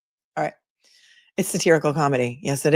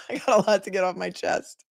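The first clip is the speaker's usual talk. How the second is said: re-read through a chuckle; laughing; 3 dB quieter than usual. Shown as a demonstration. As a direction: say it again while laughing at it. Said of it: "that's just what it reminded me of".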